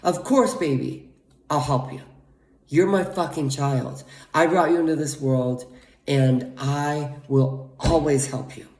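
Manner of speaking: loving parent. Pretend. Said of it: "Second thing I'd say".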